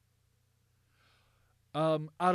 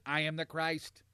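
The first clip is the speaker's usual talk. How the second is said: robot voice. Retold or imitated. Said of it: "He talked like a robot".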